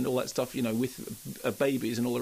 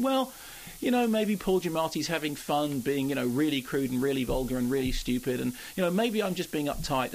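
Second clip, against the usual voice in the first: retold inner voice. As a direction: voice the doubting half of yourself, pitched up. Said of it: "part of me was thinking".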